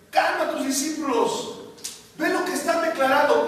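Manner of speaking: slowed, high reproach; indignant demand. Retold or imitated. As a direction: scold like an annoyed Pharisee. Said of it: "le dicen los fariseos".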